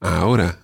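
Ahora said a-O-ra; stress on second-last syllable. Shown as a demonstration. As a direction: lean on the middle O of Ahora. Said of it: "pronounced on the second last syllable".

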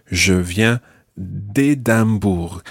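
slow "d'Édimbourg", D joined to the name; run-in elision. Shown as a demonstration. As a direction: pause after "viens", then "d'Édimbourg" as one word. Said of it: "you run it into the next word".

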